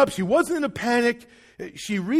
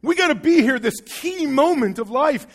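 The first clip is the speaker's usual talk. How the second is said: lightly acted, eager excitement; higher-pitched rejoicing; rejoicing angels; 3 semitones higher than usual. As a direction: celebrate like excited onlookers. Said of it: "like, rejoicing".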